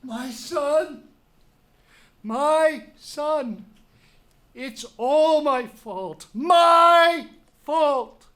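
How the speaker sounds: rising to a loud cry of guilt; anguished grief. Acted. Creon holding his dead son, anguished grieving cry. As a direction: break under the blame.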